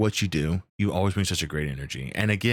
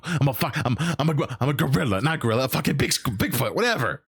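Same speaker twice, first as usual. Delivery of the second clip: higher, fast, stumbling indignation; flustered character retort; 6 semitones higher, faster than usual. Acted. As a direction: trip over your words in mock indignation. Acts out flustered character correcting people.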